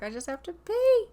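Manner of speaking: a hammed-up desperate wife voice; voicing wife. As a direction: shove past in a squeaky put-on voice. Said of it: "She's like".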